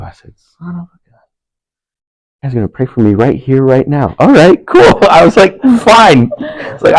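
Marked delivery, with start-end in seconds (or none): 0.4-4.2 mock exasperated. Retold exasperated inner reply. 4.2-6.3 high, loud mock reluctance; a pushed-up, resigned "fine"; reluctant agreement. Retelling a stranger's prayer offer, mock resigned.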